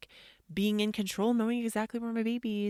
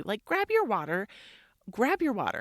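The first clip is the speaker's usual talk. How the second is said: louder, pressing repeated command; insistent nagging; 2 semitones higher, 5 dB louder than usual. Retold or imitated. Mom nagging son to take water, insistent. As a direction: press the order on a stubborn kid.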